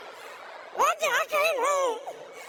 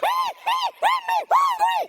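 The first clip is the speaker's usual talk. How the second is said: much higher, louder desperate plea; brother pleading; 10 semitones higher, 6 dB louder, slower than usual. Retold or imitated. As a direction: beg like the frantic brother. Voicing handicapped brother pleading.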